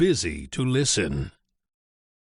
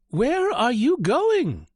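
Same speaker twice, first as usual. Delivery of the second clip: high, louder goose voice asking; curious goose; 13 semitones higher, 4 dB louder than usual. Acted. Goose calls to the running chick. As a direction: call out as a chatty goose. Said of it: "she asked".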